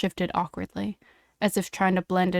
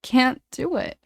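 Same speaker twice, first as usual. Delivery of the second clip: higher, anguished plea, mildly acted; voice breaking; 5 semitones higher, 5 dB louder than usual. A narrator's reading. James refusing to hurt the other boy, voice breaking. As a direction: let a touch of breaking into a raised voice. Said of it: "voice breaking".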